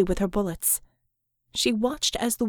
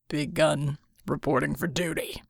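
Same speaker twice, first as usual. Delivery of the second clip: low, hushed, unvoiced menace; quiet whisper; 6 semitones lower, 4 dB quieter than usual. A narrator's reading. Hero arriving behind the villain, whispered. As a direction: whisper it as a threat.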